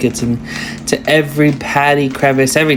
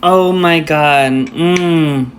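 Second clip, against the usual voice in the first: chewing steak; 3 semitones higher, 4 dB louder, much slower than usual. Real, not acted. All right, let's take a bite.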